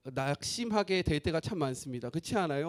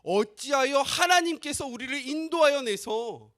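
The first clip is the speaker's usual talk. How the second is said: higher, louder accusing cry to God; mock complaint; 7 semitones higher, 6 dB louder than usual. People complaining against God, higher, louder accusing cry. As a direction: hurl the question up at God. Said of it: "여호와께로 향하는 거예요".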